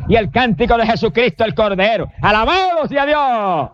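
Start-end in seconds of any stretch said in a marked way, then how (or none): 2.2-3.7 slow, drawn-out shout of praise; fervent preacher's shout. Real, not acted. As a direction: cry it out to the congregation.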